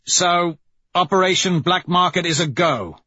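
excited. Acted. Severo thrilled by the plan.

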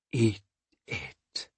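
unvoiced whisper. A narrator's reading. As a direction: whisper it urgently. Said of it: "she whispered".

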